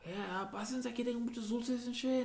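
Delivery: put-on soft, high sweet-old-man voice; a hint of a sweet old Mexican grandpa; grandpa's voice. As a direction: coax the kids in gently like a grandpa. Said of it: "hella paisa".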